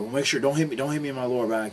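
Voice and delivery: crabby retold warning; grouchy. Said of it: "he was real grouchy".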